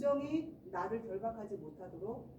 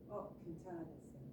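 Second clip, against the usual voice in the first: put-on mildly relieved child; 4 semitones lower, 9 dB quieter than usual. Child relieved after mom's prayer.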